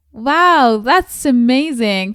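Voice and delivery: excited. Acted. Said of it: "She was surprised and happy".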